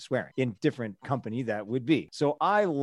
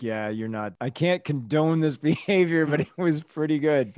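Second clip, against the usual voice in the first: stifled laugh. Retold or imitated. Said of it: "You stifle a laugh".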